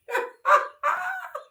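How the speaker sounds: sudden high-pitched laugh. Real, not acted. Laughs at own remark.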